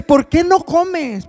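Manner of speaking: a lightly voiced husband asking gently; mild husband's question. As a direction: ask it slowly, a touch worried. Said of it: "Luego dice".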